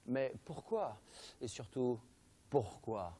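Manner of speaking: low, hushed mock suspense with pauses; ominous horror-trailer questioning, played for laughs; mock-mysterious. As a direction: drop low and soft, leave each question hanging.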